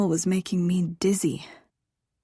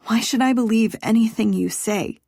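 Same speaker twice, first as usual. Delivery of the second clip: louder, higher angry demand; bitter; 4 semitones higher, 6 dB louder than usual. Acted. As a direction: spit it out in disbelief. She rejects his promises.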